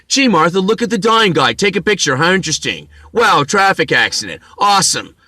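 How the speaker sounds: lightly hammed-up bystander; mocking gawking onlooker. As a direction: play a sightseer marvelling at a wreck. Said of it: "wander up and stare at me".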